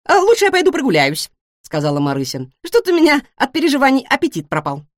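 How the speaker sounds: high, loud, rapid-fire questions; a nosy little pig who can't stop asking; chatty guinea pig. A narrator's reading. Guinea pig pestering the new cat with questions.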